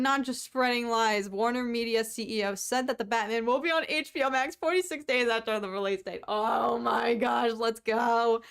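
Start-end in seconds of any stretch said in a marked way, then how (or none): 6.3-8.4 excited shout. Real, not acted. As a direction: cheer at the good news. Excited news reaction.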